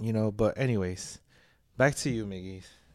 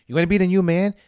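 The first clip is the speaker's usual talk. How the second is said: heated challenge; 3 semitones higher, 4 dB louder than usual. Real, not acted. Heated rant about paying bills.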